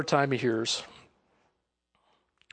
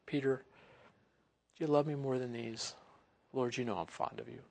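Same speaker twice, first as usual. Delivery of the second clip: tender question; 3 semitones lower, 12 dB quieter than usual. Acted. The Lord and Peter.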